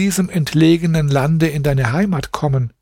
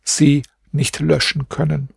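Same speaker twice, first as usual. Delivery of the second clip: higher, mournful recited lament; lamenting verses; 6 semitones higher than usual. A narrator's reading. Grieving wife laments her lost husband in verse, higher mournful voice. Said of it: "Dann sprach sie folgende Verse".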